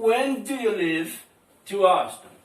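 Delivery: slow, clear English question with WHEN lifted; slow model reading. Shown as a demonstration. Teacher slowly reading out the model question, "When" lifted. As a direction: read it out slowly for the class to copy. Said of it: "Tá aí, pessoal, ó".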